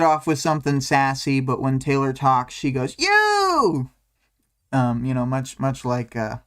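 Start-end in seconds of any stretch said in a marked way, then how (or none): 3.0-3.9 high, loud startled cry; shocked outburst. Retold or imitated. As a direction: blurt it out in shock. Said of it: "she's flipping out".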